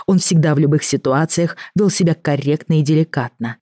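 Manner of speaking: ordinary delivery, nothing marked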